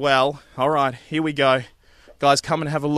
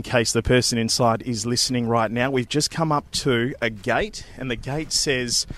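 hushed; 3 semitones lower, 5 dB quieter than usual. Real, not acted. Sneaking up to the front door.

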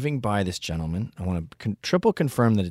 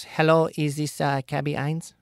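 higher, hesitant caller; a light bill-collector voice; 7 semitones higher, 4 dB louder than usual. Retold or imitated. Bill collector on the phone, lightly voiced. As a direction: read the wrong name uncertainly. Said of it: "she goes".

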